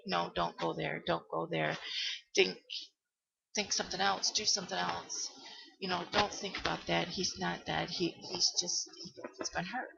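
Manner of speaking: soft inner voice, talking herself down; quietly steady yourself against the fear; murmured pep talk to self; hushed self-talk. Retold or imitated. Telling herself to stop panicking.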